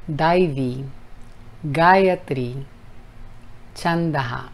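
Daivi Gayatri Chandaha word by word; slow devotional chant; mantra recitation. Shown as a demonstration. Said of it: "desglosar para enseñar la pronunciación".

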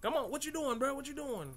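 high needling bat voice; nosy bat voice. Retold or imitated. Bats prying into the player's business in high voices. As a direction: pester them like an annoying bat. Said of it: "these bats like".

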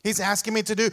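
loud, huffy complaint; mock indignant churchgoer. Preacher mimicking an offended churchgoer, loudly huffy. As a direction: play the offended listener storming out. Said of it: "walk out of here mad and say".

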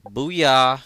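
loud triumphant booyah; excited cheer. Real, not acted. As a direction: shout it in triumph. Celebrating achievement.

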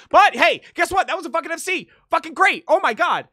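high, excited outburst; thrilled, pitched well up; elated. Real, not acted. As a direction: burst back into celebration. Celebrating the full combo once more.

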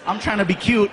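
normal talking voice

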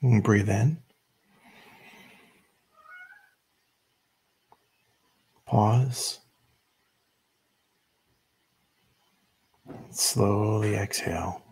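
measured meditation guide with long pauses; unhurried instructions, leaving room to breathe between phrases; guided meditation. Real, not acted. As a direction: lead them gently into stillness, phrase by phrase.

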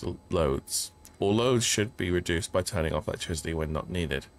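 steady note-reading voice; reading aloud. Acted. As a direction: read the memo out evenly. Reads out an in-game note.

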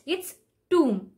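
tomb said toom, silent B; tomb without the B sound. Shown as a demonstration. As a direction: say tomb as /tum/ with no B. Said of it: "the B is silent".

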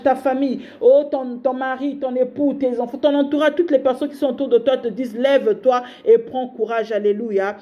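preaching exhortation. Acted. Prêche sur l'entourage.

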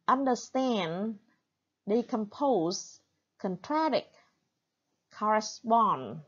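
lighter stress on the first syllable of understand, decompose, contradict, correspond, main stress on the last; UN-der-STAND, DE-com-POSE, CON-tra-DICT, COR-re-SPOND, strongest at the end; secondary stress on prefix. Shown as a demonstration. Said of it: "first syllable usually gets secondary". (nhấn phụ âm tiết đầu, nhấn chính âm cuối: understand, decompose, contradict, correspond)

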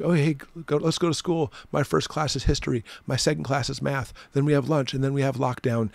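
sing-song imitation of kids listing their school day; mock carefree kids. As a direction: parody classmates who find lockdown routine. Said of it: "It's like".

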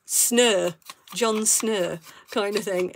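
a light northern English "snur" for Snow, vowel drawn into an r; northern English accent. Shown as a demonstration. Showing viewers how northern English folk say Snow, in a light northern English accent. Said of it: "they sort of use it like".

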